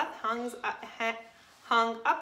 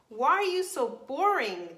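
anteater voice; 4 semitones higher, 5 dB louder than usual. Acted. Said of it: "the anteater asked".

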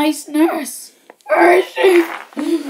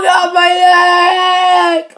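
mock wail; 2 semitones higher, much slower than usual. Patient discovers leg gone.

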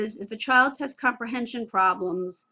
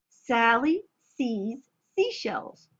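slow careful repeat; slower than usual. Shown as a demonstration. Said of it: "inflection, intonation, silliness".

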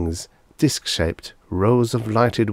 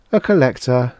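strange, higher alien tone; 5 semitones higher, 5 dB louder than usual. Acted. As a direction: reveal yourself as the creature. Alien reveals itself.

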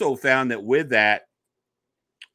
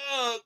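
effort grunt; 11 semitones higher, 5 dB quieter than usual. Retold or imitated. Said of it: "trying to, get up".

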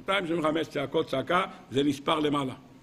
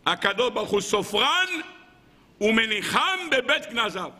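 preaching declamation; 5 semitones higher than usual. Real, not acted. Rabbi quoting a sacred line to his audience, declaiming. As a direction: declaim it, stretching the key words.

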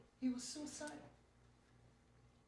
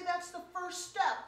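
cheering parent; 7 semitones higher, 6 dB louder than usual. Pretend. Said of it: "and they say".

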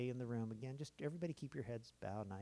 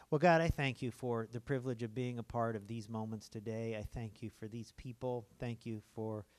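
pastor's prayer. Acted. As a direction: pray over the congregation, calm and sincere. Leads a closing prayer.

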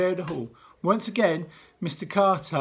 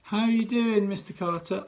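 uncertain reply; 4 semitones higher than usual. Acted. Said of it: "said uncertainly".

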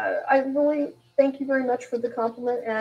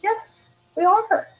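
slow affirmation; 8 semitones higher, much slower than usual. Retold or imitated. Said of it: "I said".

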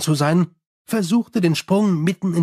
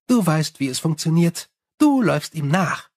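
Sally. Acted. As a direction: rattle on cheerfully like a gossiping vampire. Sally the vampire speaks.

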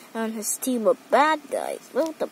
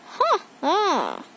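gloating laugh; 5 semitones higher than usual. A narrator's reading. Escaped invisible villain gloats.

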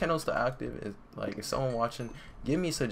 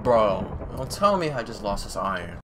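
panicked shout; 7 dB louder than usual. Real, not acted. Panics over lost iron.

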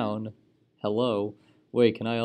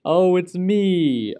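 excited; 8 semitones higher, 10 dB louder, much slower than usual. Real, not acted. Player's turn comes up in game.

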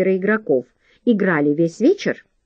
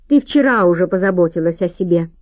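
ordinary delivery

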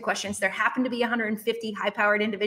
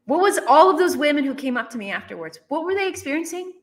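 ordinary talk

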